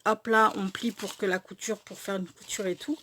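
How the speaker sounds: talking through hiccups; hiccuping mid-sentence. Real, not acted. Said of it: "j'ai le hoquet".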